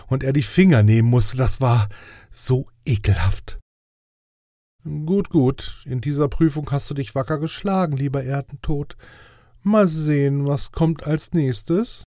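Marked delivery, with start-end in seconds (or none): 4.8-12.0 higher, official angel voice; fussy inspector angel. Acted. Inspector angel grading Death's test, higher official voice. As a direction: play the strict inspector angel, pitched up. Radoril's voice in the story.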